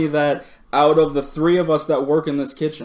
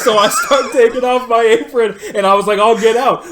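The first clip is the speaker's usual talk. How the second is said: worked up; 7 semitones higher, 6 dB louder than usual. Retold or imitated. Storming out after shouting match.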